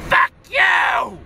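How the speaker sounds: high, furious shout; enraged. Real, not acted. Cursing out his brother over money, enraged shout. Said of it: "this video of rage".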